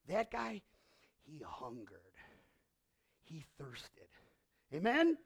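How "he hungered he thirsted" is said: low and soft, almost breathed; preacher describing the sinner softly, lower and softer; hushed. Acted. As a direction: sink the voice down low. Humble sinner's longing.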